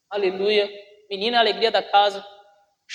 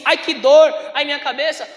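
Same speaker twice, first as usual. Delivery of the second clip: put-on child crying out; 3 semitones higher, 5 dB louder than usual. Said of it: "E quando ele disse assim".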